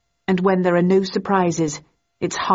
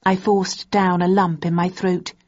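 usual speaking voice

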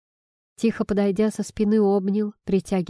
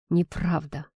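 through gritted teeth; 3 semitones lower than usual. A narrator's reading. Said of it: "сквозь зубы запротестовал он".

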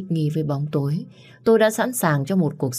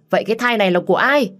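high, loud, fast interrogation; mother demanding who the father is, angry demand; 6 semitones higher, 5 dB louder, much faster than usual. Acted.

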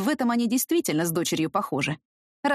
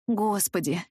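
plain reading voice

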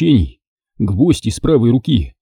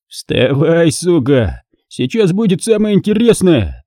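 higher, sneering villain taunt; a touch of a leering thug; gloating rapist; 6 semitones higher than usual. Acted. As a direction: relish the power over her. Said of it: "упивался своей властью подонок".

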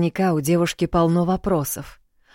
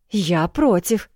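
slow indignant protest; 4 semitones higher, 4 dB louder, slower than usual. Acted. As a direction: object with offended pride. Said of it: "Лейонел возмущённо выпрямился". (возмущённо)

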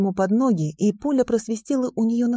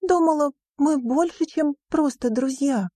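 betrayed by her friend; a lightly voiced hurt girl; 8 semitones higher than usual. Riona continues.

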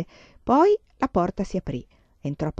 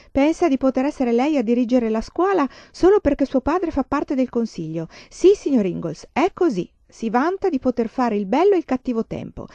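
higher, louder furious accusation; angry accusation; 5 semitones higher, 4 dB louder than usual. A narrator's reading. Teacher accusing Laura before the board, angry and raised. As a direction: denounce the girl in front of her father. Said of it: "rispose la signorina Wilder rabbiosamente".

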